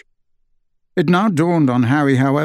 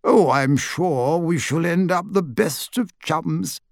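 brightly; 4 semitones higher, slower than usual. A narrator's reading. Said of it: "said Diggle brightly".

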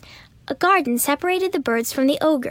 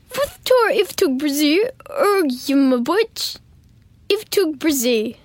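slow squawky parrot voice; much slower than usual. A narrator's reading. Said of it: "the parrot said".

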